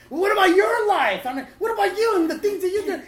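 very loud, high-pitched outburst; explosive argumentative shout; lashing out. Acted. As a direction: yell an accusing retort back at them. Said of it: "took everything not to lash out".

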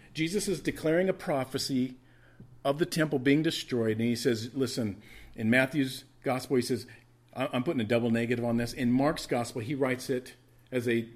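ordinary talk

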